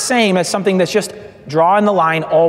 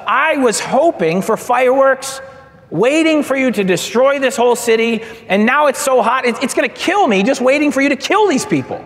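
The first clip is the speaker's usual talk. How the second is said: higher, rising complaint that speeds up; whining Jonah; 5 semitones higher than usual. Retold or imitated. Jonah sulking on the hillside, whining at God. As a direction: grumble like a sulking prophet in the heat.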